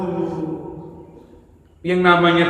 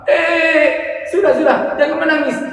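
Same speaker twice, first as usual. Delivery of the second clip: much higher, pleading shopkeeper voice; soothing shopkeeper; 12 semitones higher than usual. Acted. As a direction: coax him to stop crying. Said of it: "Penjual baju itu mengatakan".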